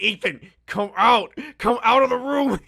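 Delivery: loud, high call through a door to a roommate in headphones. Retold or imitated. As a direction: shout it through the closet door. Calling roommate through closet door.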